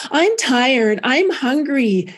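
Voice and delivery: a lightly voiced tired little boy, slow on hungry; little boy's voice. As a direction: mildly imitate a worn-out kid, dragging out hungry. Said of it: "He sounded different".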